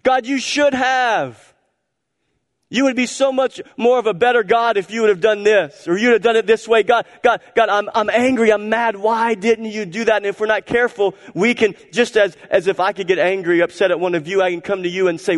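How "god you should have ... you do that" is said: complaining to God. Acted. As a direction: shake your fist at God, petulant and hurt. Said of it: "relate to God and say".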